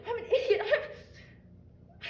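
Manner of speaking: high, breaking, half-laughing half-crying; laughing into tears. Acted. Calling herself stupid, laughter cracking into tears. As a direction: crumble under self-blame.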